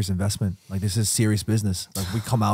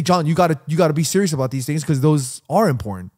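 raised, higher mock scolding; mock yelling co-host; 5 semitones higher, 3 dB louder than usual. Podcaster quoting his co-host's lecture to him, raised mock scolding. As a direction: imitate an earnest telling-off, pitched up. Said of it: "The way you yell at me".

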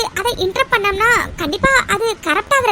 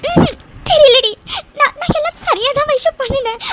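tearful, halting words; crying; 4 semitones higher than usual. Acted. Mitra tells Vaishu she did everything right, tearful. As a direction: speak through tears, stumbling. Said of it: "நீங்க எதுக்கு அழுதுட்டு இருக்கீங்க?".

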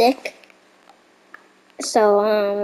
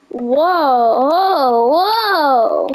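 excited; 3 semitones higher, much slower than usual. Real, not acted. Amazed at new game update.

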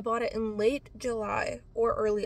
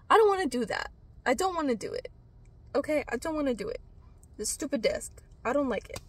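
whiny refusal; 3 semitones higher than usual. Real, not acted. To viewers, refusing to return the desk: whiny protest.

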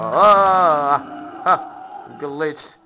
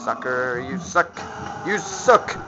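taunting. Real, not acted. Taunting game enemy.

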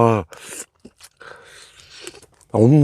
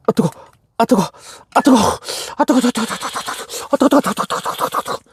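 gasping through a hot mouthful; hissing out the burn; mouth full of hot food; 12 semitones higher, faster than usual. Real, not acted. Hot mussel burning the mouth. (뜨거운 음식을 문 채 다급하게)

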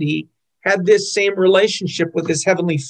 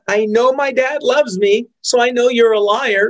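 put-on a child standing up to a liar, mildly raised; a kid repeating it with more force; defiant kid; 4 semitones higher than usual. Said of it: "My kid could say".

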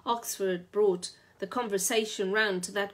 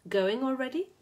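reproachful; 6 semitones higher, 3 dB louder than usual. A narrator's reading. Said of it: "in her tone of reproach".

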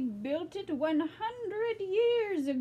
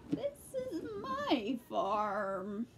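put-on old lady voice. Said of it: "speak in the old lady voice".

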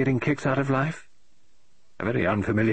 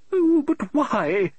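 high, slow, drawn-out cry to the heavens; exasperated demand; 4 dB louder, much slower than usual. Acted. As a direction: plead with the universe, stretched out. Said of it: "demanded Missus Oliver of the universe".

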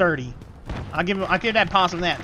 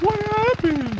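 imitating mom; slower than usual. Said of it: "my mom's like".

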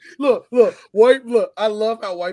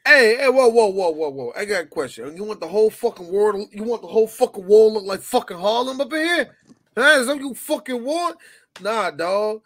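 angry bar owner; 2 semitones higher, 4 dB louder than usual. Acted. Acts angry Italian bar owner.

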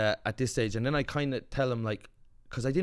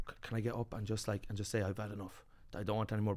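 timid inner voice; 5 semitones lower, 12 dB quieter, faster than usual. Retold or imitated. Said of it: "I was like".

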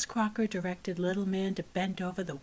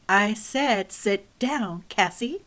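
stern repeated order; 6 dB louder, slower than usual. Acted. Teacher repeats her order, sterner.

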